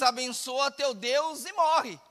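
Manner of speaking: slow, drawn-out ironic blessing. Retold or imitated. Job's wife ironically blessing God to her husband, ironic. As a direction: say it with slow, mock-pious irony. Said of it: "De uma forma ironizada, ela diz".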